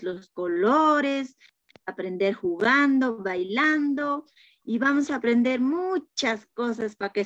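comforting teacher. Acted. Teacher comforting crying child.

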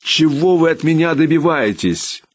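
furious questioning; angry demand. A narrator's reading. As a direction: throw the question at him. Angry man confronting official.

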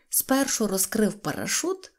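ordinary delivery

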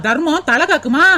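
slow scornful echo, dragging காக்குமா; mocking echo. Sister-in-law mocks the charity song, slow sneer. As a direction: spit back காக்குமா slowly with scorn.

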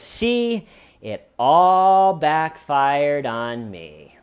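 high, drawn-out woe-is-me complaint; mock self-pity. Suspect laments to detectives that it backfired, self-pitying. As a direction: imitate a loud, long-suffering moan.

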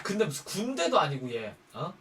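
ordinary talk, nothing marked

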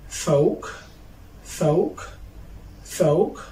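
"فوق" as English "folk" with no L; teacher's careful "فوق", long o straight into k; silent L. Shown as a demonstration. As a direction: model "فوق" as "foke". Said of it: "I will start with silent letter L".

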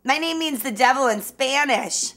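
goofy self-absorbed show-off voice; hammy, ditzy celebrity bragging; silly clown. Acted. Parody Diablo Cody ditzy self-promo.

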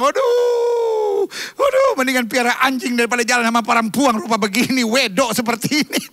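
mock exasperated man. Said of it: "laki-laki bilang".

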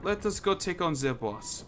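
playful, badly faked German accent; lightly hammed-up mock German accent. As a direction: put on a hammy German accent. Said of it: "doing a, a bad German accent".

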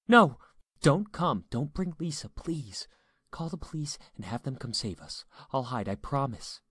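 high, pleading panic, loud at first; panicked. A narrator's reading. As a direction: burst out, then plead in fright. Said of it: "Erica was panicked and sounded like it".

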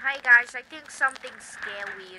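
shouted hello to the camera; loud vlog greeting. Pretend. Kid greeting his viewers, loud and hyped. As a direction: call out to the viewers. Kids filming a spooky vlog.

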